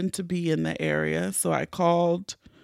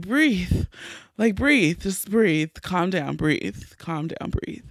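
self-soothing; slower than usual. Retold or imitated. Woman coaching herself through a panicked cry, soothing and fading.

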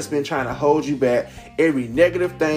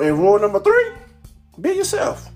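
announcer call; 7 semitones higher, 3 dB louder than usual. Acted. Announcing house rules.

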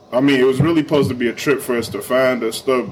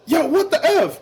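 demonstrated outburst. Shown as a demonstration. Warning co-hosts he yells at football while recording, mock outburst. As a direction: pop off in a high, half-held-back yell. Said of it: "sometimes I might yell out and be like".

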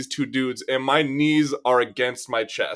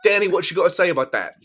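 mock British accent; 5 semitones higher than usual. Demanding an answer from Danny in British accent. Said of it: "I'm gonna do the rest of the episode in this accent".

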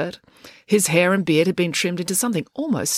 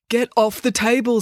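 higher, cross order; stern order; 7 semitones higher than usual. Acted. Joy to April on the table, stern. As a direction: order her down firmly.

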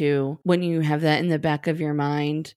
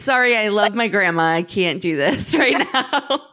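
mock tearful apology, louder; mock crying; 2 semitones higher, 5 dB louder than usual. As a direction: playfully act too choked up to go on. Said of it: "She's crying".

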